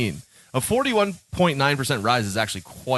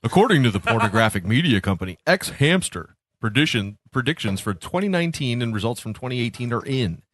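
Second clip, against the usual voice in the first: announcer voice. Pretend. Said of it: "This is my announcer voice".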